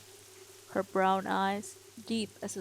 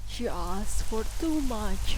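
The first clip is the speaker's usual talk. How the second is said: slow, loud and heavy; Baron's stern voice; 4 dB louder, slower than usual. Acted. Baron to his children, slow loud accusation. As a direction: hold each word, weighty. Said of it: "the Baron said".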